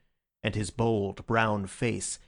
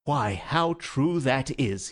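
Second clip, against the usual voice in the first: radiant; 2 semitones higher, slower than usual. Acted. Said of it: "with a radiant face".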